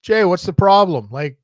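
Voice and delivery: coaxing through door. Retold or imitated. Calling brother out of bathroom.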